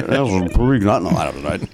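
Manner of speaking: mumbled announcer dropping low; Ross Porter. Acted. Trying a new player in the drunk announcer bit, mumbled impression. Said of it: "a Ross Porter impression".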